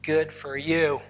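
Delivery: mock unfriendly put-down through a scowl; scowling retort. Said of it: "with a big scowl on her face".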